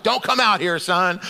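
mock-irritated warning to son; lightly hammed-up exasperation; fired up. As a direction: act out a worked-up dad waving his son off. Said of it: "so fired up out here".

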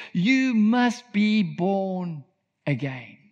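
very slow and low, "born" stretched, "again" dropping away; emphatic. Acted. Jesus insisting to Nicodemus, slow and emphatic. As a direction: press the words "You must be born" out slowly, then let "again" fall. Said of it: "Why is he so emphatic about this".

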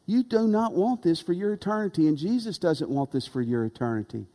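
soft, earnest plea, not a scream; gentle plea. Shown as a demonstration. Preacher pleading softly with unbelievers, sincere and hushed. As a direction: plead quietly with a sinner to turn. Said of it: "I'm just gonna say".

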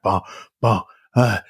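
short mock grunts; imitated sex grunts. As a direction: grunt as if overheard through a wall. Imitating noises heard at night.

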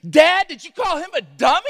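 high, loud call with a laugh; hollered question. Retold or imitated. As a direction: shout up to Dad, amused. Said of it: "Marla hollers back up at me".

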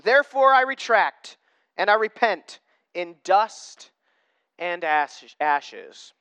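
measured, emphatic Bible reading aloud; scripture reading. Real, not acted. Preacher reading Job's reply to the congregation, emphatic scripture reading. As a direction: read the verses out with weight.

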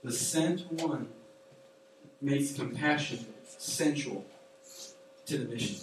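slow, deliberate, word by word; slow emphasis. Acted. Pastor driving home the point, slow and weighty. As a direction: lay each word down slowly. Repeats key phrase for emphasis.

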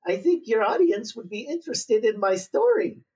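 put-on light Eastern European accent; a hint of an Eastern European accent. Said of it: "with a very thick Eastern European accent".

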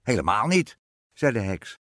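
loud, lightly voiced witch retort; dismissive witch. A narrator's reading. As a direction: brush the worry aside as a witch. Witch flatly contradicts the queen.

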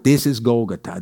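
lightly imitated Israeli accent, low; hint of an Israeli accent on Golgotha. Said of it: "my friend Edon's accent".

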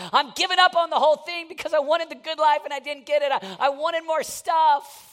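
mock the spoiled twenty-five-year-old; lightly voiced complaining passenger; disillusioned young man. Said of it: "the twenty-five-year-old on the airplane that says".

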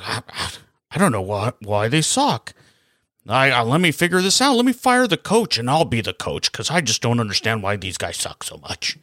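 lightly put-on voice of a clueless GM shrugging off blame; mock the manager dodging the blame, playing dumb; Bob Murray voice. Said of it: "That's my Bob, Bob Murray voice".

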